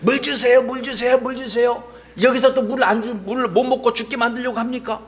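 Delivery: insistent mock pleading, repeated in a run; acted complaining. Thirsty Israelites demanding water at Meribah, acted complaining. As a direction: imitate a crowd grumbling for water. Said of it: "불평하기 시작을 했어".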